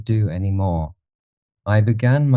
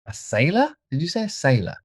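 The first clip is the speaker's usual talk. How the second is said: high, hushed-edged astonishment; stunned disbelief; 10 semitones higher, 4 dB quieter than usual. A narrator's reading. Dorian hears of a sailor, stunned and high. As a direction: echo it in shock, pitched high.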